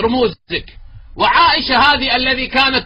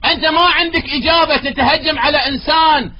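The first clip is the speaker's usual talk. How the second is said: angry accusation; 5 semitones higher than usual. Real, not acted. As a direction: build into a furious charge. Heated debate accusation.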